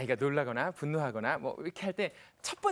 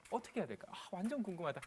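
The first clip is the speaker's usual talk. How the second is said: much softer, as if thinking aloud; curious muttering; 9 dB quieter than usual. Acted. Lecturer speaking the audience's thought, quiet curious aside. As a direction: voice the listener's private wondering under your breath.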